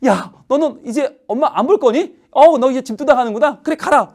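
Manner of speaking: high-pitched mock scolding; acted, huffy maternal telling-off; indignant mother. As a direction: play a mother daring her child to go. Acts mother scolding departing child.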